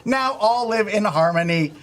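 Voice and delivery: robot voice, stiff and announcer-like; a lightly voiced robot from the future; old speech synthesizer. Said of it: "Sam three thousand".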